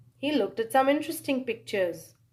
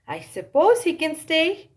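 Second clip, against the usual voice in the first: giving-in nurse; 5 semitones higher, 4 dB louder than usual. A narrator's reading. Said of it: "she said".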